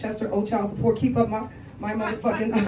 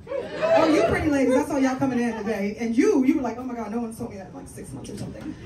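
gushing audience member. Retold or imitated. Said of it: "That was a good impersonation right there".

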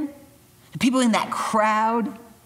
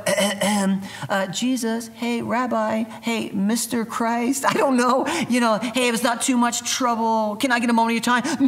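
mock timid asking. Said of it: "sitting there on the side of the road and going".

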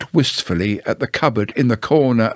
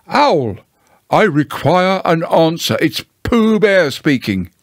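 higher-pitched, mildly loud call at a door; calling out loudly; 5 semitones higher than usual. Acted. Pooh calls out to Owl at his door, calling loudly. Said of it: "in a very loud voice".

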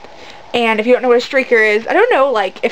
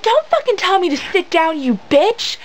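higher-pitched irate mom imitation; mock angry retort; 7 semitones higher than usual. Imitating a drunk mom turning on her sister, mock angry. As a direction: fire back in a mock outraged voice.

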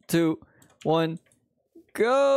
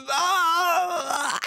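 startled cry; 13 semitones higher than usual. Real, not acted. Powdered snow killing him.

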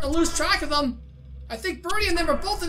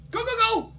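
frantic shout; 6 semitones higher than usual. Real, not acted. Urging animatronic away in panic.

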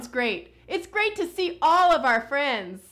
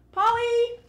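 calling out; 10 semitones higher, 4 dB louder than usual. Pretend. Calling for the hidden puppet.

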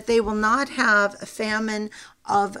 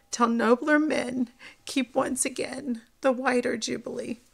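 emotional reading; 2 semitones higher than usual. Real, not acted. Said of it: "I get emotional sometimes when I read these things".

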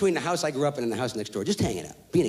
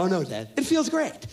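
put-on sarcastic kid. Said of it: "I go".

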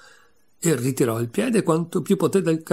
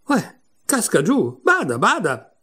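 high, drawn-out warning cry; raised-pitch alarm, stretched out; urgent warning; 7 semitones higher, 3 dB louder than usual. A narrator's reading. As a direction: call out a warning as something falls. Warning of a falling tile.

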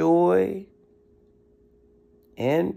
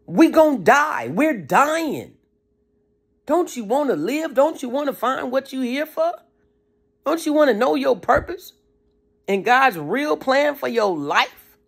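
higher pleading cry, stop stop stop; screaming organs; 6 semitones higher than usual. Retold or imitated. Organs begging the overfed owner, high pleading cry. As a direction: beg like an overworked organ close to dying. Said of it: "Your organs is screaming".

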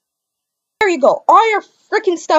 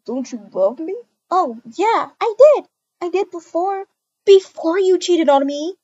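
louder, pointed accusation, slowing at the end; wounded girlfriend turning angry; hurt accusation; 4 semitones higher, 4 dB louder than usual. Acted. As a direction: throw the cheating back at him. Girlfriend confronts cheating boyfriend.

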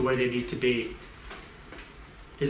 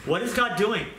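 raised pitch; 8 semitones higher, 3 dB louder than usual. Real, not acted. Preacher rhetorical question.

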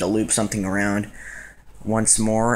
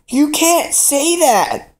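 very high, slow mock shock; shocked at herself; 4 dB louder, much slower than usual. Scolding herself for a sexist remark, high mock shock. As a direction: gasp it out in disbelief. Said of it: "I was like".

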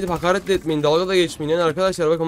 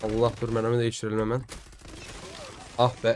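muttering to himself; 6 semitones lower, 10 dB quieter than usual. Real, not acted. Muttering while playing a game.

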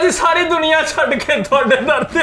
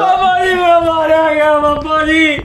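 mock wailing; 3 semitones higher than usual. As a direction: cry out as if ruined, overacted. Distraught devotee wails to baba. (ਨਾਟਕੀ ਢੰਗ ਨਾਲ ਵਿਲਕਣਾ)

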